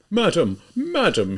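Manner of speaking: a hint of a pompous gentleman; lightly voiced self-important official; imposing voice. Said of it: "he exclaimed in an imposing voice".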